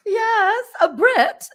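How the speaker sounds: high, loud squeal after laughing; real amusement. Real, not acted. Reader agreeing about the spirit's accent, squealing amusement. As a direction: squeal it out, still tickled.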